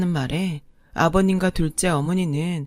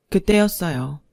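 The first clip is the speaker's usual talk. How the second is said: plain reading voice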